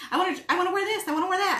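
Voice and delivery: put-on high pleading little kid; whiny kid voice. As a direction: whine it like a child. Kids quoted wanting outfits.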